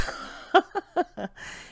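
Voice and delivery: high, airy run of laughs; laughter. Real, not acted. Joking that it was not Burning Man, real laughter. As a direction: crack up at your own joke. Jokes about son's music festival.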